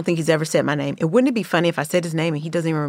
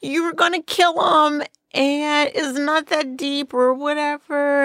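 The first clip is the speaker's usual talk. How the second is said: mock crying; 8 semitones higher than usual. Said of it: "I'm full on crying".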